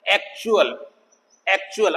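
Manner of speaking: "एक्चुअल" with U and A in separate syllables. Shown as a demonstration. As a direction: keep "चु" and "अल" distinct in "एक्चुअल". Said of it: "separate syllables".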